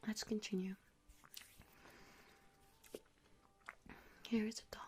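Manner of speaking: whispering with a mouthful of grape; mouth full. Real, not acted. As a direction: talk around the grape in your mouth. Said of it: "I'm speaking with my mouth full".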